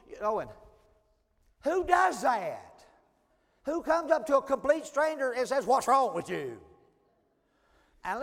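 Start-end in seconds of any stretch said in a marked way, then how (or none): 1.6-6.6 loud and high, who does that dragged out slowly; indignant outrage. Retold or imitated. Preacher fuming at the audience about the rude stranger, loud indignation. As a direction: let your disbelief boil over.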